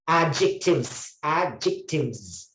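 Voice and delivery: slow, separated "Adjectives", said "a-jik-tivz"; silent D. Shown as a demonstration. Teacher drilling the silent D, slow "Adjectives". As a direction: stretch out "Adjectives" without the D. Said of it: "D is silent".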